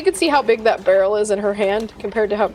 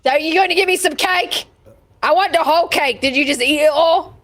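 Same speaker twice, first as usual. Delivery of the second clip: giant's demanding bellow; 3 semitones higher than usual. Acted. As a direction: roar it out like a greedy giant.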